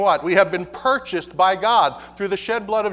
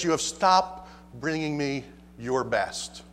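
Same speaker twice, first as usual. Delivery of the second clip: God's lament; 5 semitones lower, 5 dB quieter, slower than usual. Acted. God quoted by the preacher.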